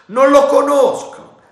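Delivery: loud, high, slow contempt; dismissive. A narrator's reading. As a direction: brush him off. Captain dismisses Silver.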